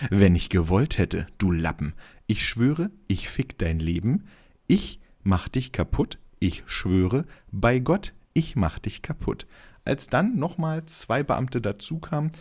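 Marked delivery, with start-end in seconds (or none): 0.1-9.5 put-on belligerent drunk. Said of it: "die Sätze von Herrn Losensky zum Polizisten".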